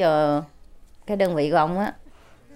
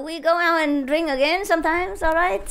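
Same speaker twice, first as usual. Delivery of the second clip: buddy on phone; 11 semitones higher than usual. Retold or imitated. Soldier mistakes general for buddy.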